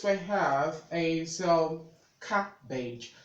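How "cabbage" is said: "cabbage" in two separated syllables, CAB-bage; correct pronunciation. Shown as a demonstration. Tutor showing learners the first word, careful pronunciation. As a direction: say "cabbage" slowly as a model, pausing between syllables. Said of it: "learn the correct way to do that".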